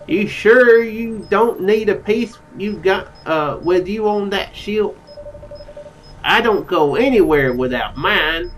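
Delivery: slow Southern drawl; Southern accent. Acted. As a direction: draw it out like a Southern crewman. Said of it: "whenever I do a Southern accent".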